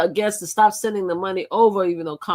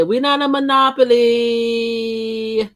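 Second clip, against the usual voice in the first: slow, word-by-word insistence; slow emphatic retelling of a common saying; slow emphatic quote; 6 semitones higher, 6 dB louder, much slower than usual. Retold or imitated. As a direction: spell it out deliberately. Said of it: "they always say".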